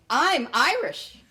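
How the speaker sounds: mock-grand declaration, laughing; proud announcement. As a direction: announce it grandly, half joking. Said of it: "I did it by saying".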